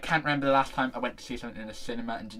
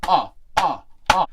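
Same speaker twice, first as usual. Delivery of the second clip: short, loud, higher "ah" bursts; loud "ah" exclamations; 5 semitones higher, 12 dB louder than usual. Real, not acted. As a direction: punch out repeated loud "ah"s. Raving about sweet pizza.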